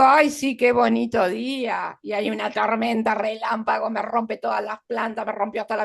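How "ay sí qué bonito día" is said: exclamación irónica más aguda y fuerte; ironía. Shown as a demonstration. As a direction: fingir alegría con sorna. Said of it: "Esta es una ironía". (tono irónico de falsa alegría)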